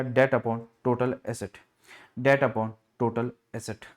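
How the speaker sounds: slow, spaced drill of the formula. Shown as a demonstration. Teacher drilling a formula for students, slow and spaced. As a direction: spell the formula out slowly for students to write.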